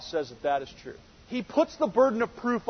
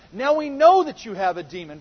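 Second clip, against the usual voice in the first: mild mock accusation; 4 semitones higher, 8 dB louder than usual. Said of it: "The Jews say to him".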